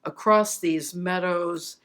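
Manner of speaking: deliberate recital, phrases falling at the end; poem reading. Real, not acted. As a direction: recite a memoir poem with spacious pauses. Recites her memoir poem.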